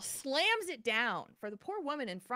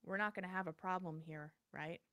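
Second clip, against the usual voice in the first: stern warning; 8 dB quieter than usual. Retold or imitated. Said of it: "she very sternly looks at him".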